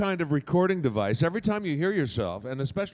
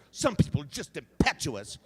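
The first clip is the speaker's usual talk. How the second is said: brusque impetuous attitude. Shown as a demonstration. Demonstrating attitude to an audience, impetuous. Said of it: "now just add attitude".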